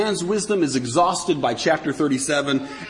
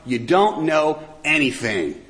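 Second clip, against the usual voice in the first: biting sarcasm. Retold or imitated. The Lord taunts men who think they're smart, biting sarcasm. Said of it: "ripping into them with this biting sarcasm".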